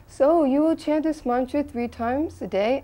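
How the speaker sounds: high, rising questioning lilt; lightly voiced teacher seeking a promise; imitating guru's question. Guru instructing a new disciple, imitated high-pitched question. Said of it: "and then he said".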